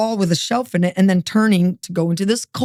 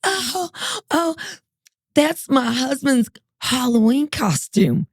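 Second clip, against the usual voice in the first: higher, slow offhand excuse; breezy excuse; 5 semitones higher, slower than usual. Retold or imitated. Wife explaining the mask in a higher, slower voice. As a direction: play it down sweetly. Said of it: "And she goes".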